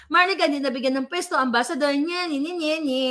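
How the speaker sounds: lightly voiced sing-song taunt; mock nye-nye taunt, barely changed voice; taunting mockery. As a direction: tease them the way critics jeer. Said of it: "Galit pa kayo".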